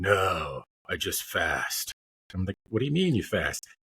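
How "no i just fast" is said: big, low, rough voice, very slow. Retelling what a big dude who lost weight said, imitating a big rough voice. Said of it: "He's got the big, rough voice".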